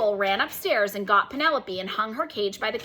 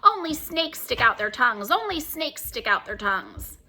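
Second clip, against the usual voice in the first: parrot yelling. Acted. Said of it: "bounced around yelling".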